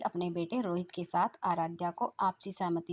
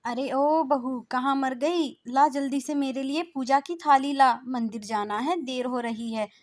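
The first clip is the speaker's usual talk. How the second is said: high, loud call across the house; bossy mother-in-law shouting for bahu; 6 semitones higher, 8 dB louder than usual. Acted. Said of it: "सास आवाज लगाती".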